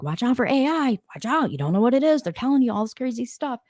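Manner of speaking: a hint of a dramatic doom prophet; mock Elon warning. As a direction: play the alarmist tech warning, lightly. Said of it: "Elon Musk is all like".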